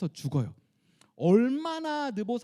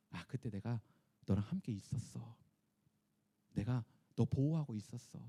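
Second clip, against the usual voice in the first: tender God. Retold or imitated. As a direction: reassure Moses gently, like a loving father. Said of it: "어떻게 부르신 거예요?". (모세를 다독이는 하나님, 낮고 부드럽게)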